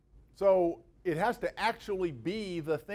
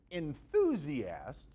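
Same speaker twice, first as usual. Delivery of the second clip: stretched out slowly, rising on the second syllable "thu"; indignant enthusiasts; 3 semitones lower, much slower than usual. Shown as a demonstration. Lecturer mocking how people say the word, slow and indignant. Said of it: "voice rising with indignation on the second syllable".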